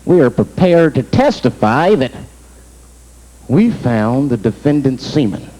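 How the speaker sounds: low, slow, official testimony; formal forensics expert. Acted. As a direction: deliver it like a stiff expert witness. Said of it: "Forensics was like".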